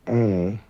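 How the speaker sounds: "eh" held long, like Sarah's first vowel. Shown as a demonstration. Teacher demonstrates the long Manx vowel, held open EH. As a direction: draw out "eh" as in the start of Sarah. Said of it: "sounds like the first vowel in the name Sarah".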